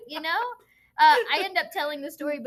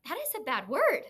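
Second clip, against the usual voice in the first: stern; 2 semitones higher than usual. Retold or imitated. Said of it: "I get big-eyed".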